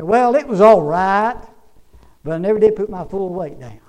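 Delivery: lightly voiced shaky grandpa; a hint of an old man's shaky voice; old man's answer, loud at the start. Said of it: "In a shaky old voice".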